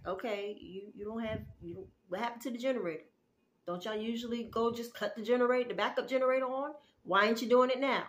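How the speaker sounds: fast, rising mock questions. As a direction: needle them with quick questions, building at the end. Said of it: "kinda mocking the person".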